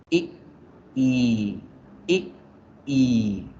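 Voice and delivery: "I" cut short, then "I" stretched out; short "I", long falling "I", in turn. Shown as a demonstration. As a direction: alternate a quick "I" with a long held "I". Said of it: "la I larga la alargamos".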